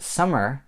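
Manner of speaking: "summer", some and er as one word; fuse some are into "summer"; blended words. Shown as a demonstration. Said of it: "as one word".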